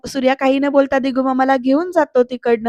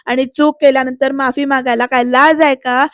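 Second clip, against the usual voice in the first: mild scolding. Acted. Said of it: "ओरडत असतात".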